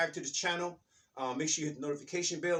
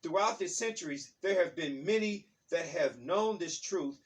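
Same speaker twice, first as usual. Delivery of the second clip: reading aloud; 4 dB louder than usual. Acted. Teacher reading a book passage to listeners, measured reading aloud. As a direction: read it out deliberately, phrase by phrase.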